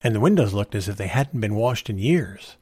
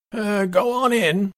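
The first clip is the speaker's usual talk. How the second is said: high, slow cordial invitation; unhurried, friendly welcome pitched high; 12 semitones higher, slower than usual. A narrator's reading. Father waving a visitor indoors, speaking cordially. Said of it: "he said cordially".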